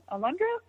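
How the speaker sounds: "Alondra?" pitched high with a rising, asking end; questioning rise. Retold or imitated. Reading out Mark's text to her, "Alondra?" rising as a question. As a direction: read "Alondra?" as a tentative texted question, rising sharply. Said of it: "Question mark".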